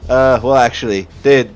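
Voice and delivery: put-on chatty introduction in a Minnesotan accent. Dirge introducing himself to new allies, Minnesotan accent. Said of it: "the Minnesotan accent is so hard to do".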